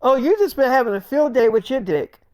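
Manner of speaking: high-pitched, indignant questioning; upset confrontation. Acted. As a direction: demand answers from a cheating lover. Crying girlfriend confronts him, acted.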